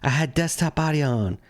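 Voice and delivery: echoey room sound; big hall echo. Real, not acted. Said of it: "we sound echoey?".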